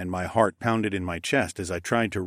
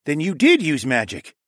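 louder, higher insistent challenge; pressing; 7 semitones higher, 6 dB louder than usual. A narrator's reading. King pursues the visitor's admission, pressing. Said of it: "Tecumseh pressed".

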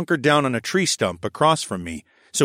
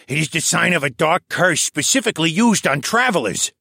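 put-on raised, lively old scholar voice; old koala elder voice; 7 semitones higher, 4 dB louder than usual. A narrator's reading. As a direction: voice the old archivist, a touch higher. Old koala elder Tovish speaks.

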